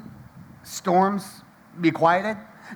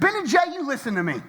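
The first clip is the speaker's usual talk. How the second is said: stern warning; 7 semitones higher, faster than usual. Retold or imitated. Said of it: "Now I'm getting ticked".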